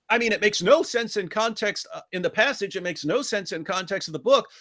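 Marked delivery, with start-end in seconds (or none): none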